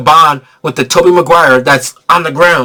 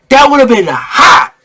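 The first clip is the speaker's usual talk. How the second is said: hyped shout; 9 semitones higher, slower than usual. Real, not acted. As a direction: shout it out like a fan losing it. Repeats the reaction, shouting.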